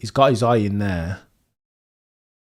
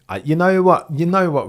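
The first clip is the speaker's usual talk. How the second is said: excited outburst; 8 semitones higher, 7 dB louder than usual. Real, not acted. Excited exclamation.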